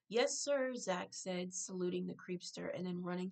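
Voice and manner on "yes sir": loud, bright salute; eager shout. Acted. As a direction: snap off a cheeky yes sir. Boy saluting, playful shout.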